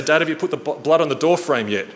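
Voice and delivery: a hint of a restless little boy pleading; anxious kids. Sons pestering dad at bedtime, lightly voiced anxious kids.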